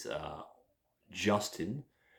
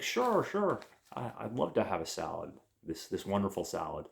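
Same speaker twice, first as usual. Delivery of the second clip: put-on eager girl; 3 semitones higher than usual. Girl voiced in retold scene.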